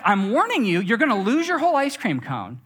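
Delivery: a hint of a stern mother warning; warning mom. Mom warning the child about the melting cone, mildly stern. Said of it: "she's like".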